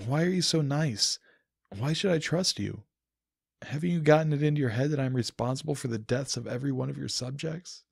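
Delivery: hurt, suspicious challenge to a kind goddess; suspicious outburst. Acted. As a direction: confront her, voice climbing with distrust. Narrator confronts Celestia suspiciously.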